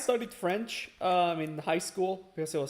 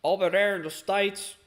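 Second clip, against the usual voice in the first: lightly voiced neckbeard locomotive, drawn-out ending; a hint of a redneck engine character. Imagining how Stanley talks, lightly put-on neckbeard voice. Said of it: "imagine him having a neckbeard voice".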